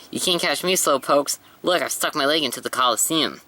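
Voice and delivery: high, teasing taunt at pursuers; taunting toy soldier. Acted.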